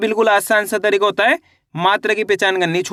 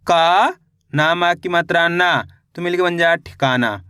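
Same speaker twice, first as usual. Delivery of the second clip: slow syllable-by-syllable blending; teacher spelling a word aloud for children; sounding out syllables; 2 semitones lower than usual. Shown as a demonstration. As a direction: stretch each syllable then join them. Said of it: "teacher sounds out syllables".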